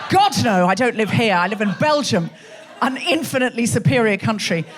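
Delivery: emphatic imitation of a proud foreigner; lightly hammed-up national pride; mock superiority. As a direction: mimic haughty dismissal. Mimicking audience member's national pride.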